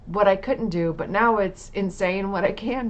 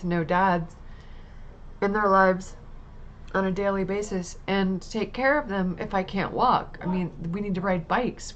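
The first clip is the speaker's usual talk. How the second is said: retold tearful prayer. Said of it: "um, said".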